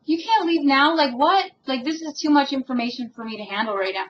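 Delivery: retelling her own stunned reaction, pitch jumping up; shocked disbelief. Retold or imitated. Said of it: "I was like".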